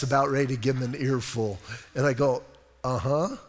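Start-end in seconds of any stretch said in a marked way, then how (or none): 2.8-3.4 chuckling through a mock-sweet reply; laughing reply. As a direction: laugh while brushing the caller off. Joking reply to a robocaller.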